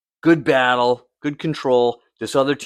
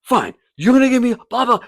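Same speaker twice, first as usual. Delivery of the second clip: high, fast mocking sneer; sneering coach; 12 semitones higher, faster than usual. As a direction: brush off the yellow card with contempt.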